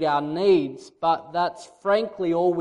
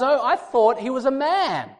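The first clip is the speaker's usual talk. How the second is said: put-on nervous girl; 2 semitones higher, 4 dB louder than usual. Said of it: "She replies".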